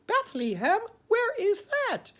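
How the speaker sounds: very high, baffled squeak; puzzled donkey. Retold or imitated. Nestor puzzled at the word Bethlehem, very high. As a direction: squeak it in confusion.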